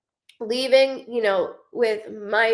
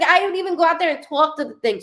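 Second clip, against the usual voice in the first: mom's chatty voice, pitched higher and louder, fast; imitating mom; 6 semitones higher, 4 dB louder, faster than usual. Mother talking about her garden, mock chatty and higher. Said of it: "She might not have my accent, but she talks like she does".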